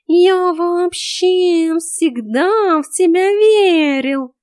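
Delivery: a cat buttering up his mistress; talking cat flattering the heroine, high and drawn out; fawning cat. A narrator's reading.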